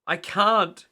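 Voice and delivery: high, loud spluttered panic; panicked splutter. A narrator's reading. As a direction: splutter while going under. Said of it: "he spluttered".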